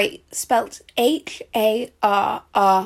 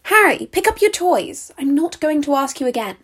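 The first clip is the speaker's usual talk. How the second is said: scolding parent; 4 semitones higher than usual. Acted. Parent scolding child about toys.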